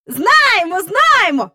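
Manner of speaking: high, loud, welcoming blurt; eagerly friendly. A narrator's reading. Michael glad to see Miss Andrew, eagerly friendly. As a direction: pipe up as friendly as can be. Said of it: "Він говорив якнайпривітніше".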